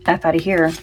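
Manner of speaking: a hint of a New Jersey accent; light New Jersey accent. Shown as a demonstration. Card reader giving her listeners today's mantra, light New Jersey accent. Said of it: "Say it with a New Jersey accent".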